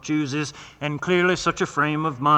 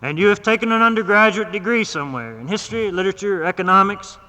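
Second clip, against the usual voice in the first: a lightly voiced stern doctor, raised pitch; 4 semitones higher, 3 dB louder, faster than usual. Doctor lecturing his patient, lightly voiced stern. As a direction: lay down the law a bit higher and firmer.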